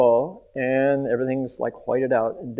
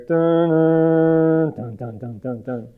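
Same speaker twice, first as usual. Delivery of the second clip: movie suspense sting; 3 semitones higher, much slower than usual. Retold or imitated. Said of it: "if this were a movie, you'd hear".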